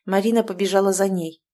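plain reading voice

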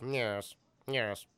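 lightly voiced theatrical Brit; Tim Curry impression. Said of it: "he kinda has this voice".

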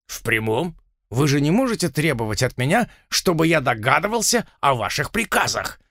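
sarcastic. Acted. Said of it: "С нескрываемым сарказмом спросил Блад".

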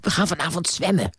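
excited. A narrator's reading. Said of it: "zei ze opgewonden".

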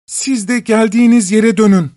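high thin calling voice from afar. Acted. Voice from the river calls to the animals, thin and high. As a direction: call thinly from the river. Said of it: "Irmaktan gelen ince ses".

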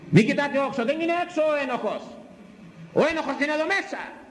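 high accusing pulpit voice, easing down by the end; fiery preaching. Real, not acted. Preacher telling the congregation the guilty are inside, fiery preaching.

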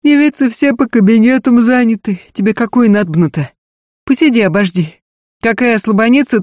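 a lightly voiced bawdy-house madam; brothel madam voice.

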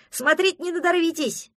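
high, loud jeer; a cocky forest dweller shouts a taunt at the friends; mocking shout. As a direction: yell the taunt across the clearing. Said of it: "крикнул он".

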